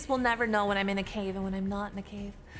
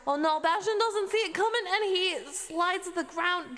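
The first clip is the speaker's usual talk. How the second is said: excited; 7 semitones higher than usual. Acted. Announcer reacts to the attack.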